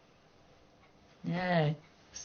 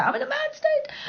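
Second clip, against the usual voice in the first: much higher, louder joking squeal; giddy squeal; 4 dB louder than usual. Real, not acted. Streamer joking with chat about a state, high giddy squeal. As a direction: squeal it out, half laughing.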